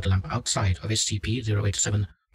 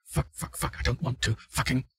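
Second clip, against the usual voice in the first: hushed, panicky swearing; frightened reluctance; 3 semitones higher, 4 dB quieter than usual. Acted. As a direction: balk in fear, swearing under your breath. Subject told to approach the face.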